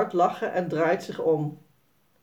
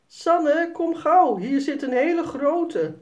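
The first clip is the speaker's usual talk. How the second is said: higher, louder urgent call; 9 semitones higher, 4 dB louder than usual. A narrator's reading. Jasper calls Sanne over to a big spider, loud and eager. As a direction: shout for her to come quickly. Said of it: "roept Jasper".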